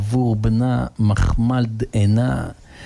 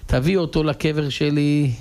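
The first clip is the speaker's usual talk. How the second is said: wife's plea; 6 semitones higher than usual. Acted. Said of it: "ואז היא אומרת לו".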